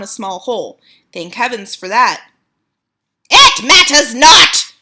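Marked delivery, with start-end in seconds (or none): 3.3-4.7 loud, slow witch command; witch shouting. A narrator's reading. Grand High Witch shouting to the witches. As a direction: declare it dismissively. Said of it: "shouted the Grand High Witch".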